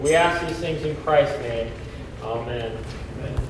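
solemn prayer in a reverberant hall; cathedral echo. Acted. Leads a closing prayer.

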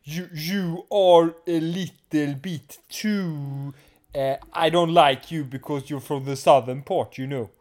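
mock English accent from a Gothenburger. Gothenburg guy snubbing a southerner, mock English accent. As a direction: put on a halting, stilted English accent. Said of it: "with English accent".

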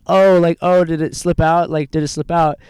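a light high imitation of a surprised woman; hammed-up puzzled question; mock puzzled woman. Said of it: "she goes".

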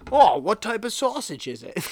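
put-on botched Chicago accent, like a down-on-his-luck Kermit. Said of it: "That's my Chicago accent".

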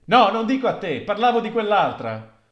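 loud, high snide correction. Acted. The voice snidely telling the widow it meant the other woman. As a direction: set the widow straight with a sneer.

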